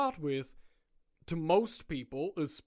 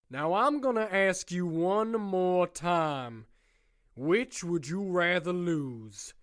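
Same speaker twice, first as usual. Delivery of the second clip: menacing ultimatum; slower than usual. Acted. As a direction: draw out every word like a threat. Warden's slow menacing ultimatum.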